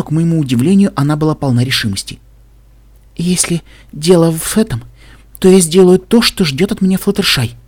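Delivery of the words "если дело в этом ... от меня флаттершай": raised, insistent resolve; adamant. A narrator's reading. Velvet vows to do what her friend expects, adamant. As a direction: declare it and allow no argument. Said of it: "непреклонно заявила она".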